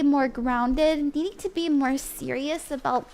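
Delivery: steady, measured guidance; tarot reading. Acted. Reader guiding a client to let go, calm reading voice.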